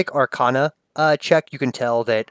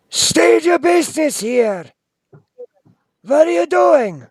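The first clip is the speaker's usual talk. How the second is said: high, loud eerie spirit voice; ghostly wind voice; 6 dB louder than usual. Acted. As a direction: demand it like a haunting spirit. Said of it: "not shouts, but whispers".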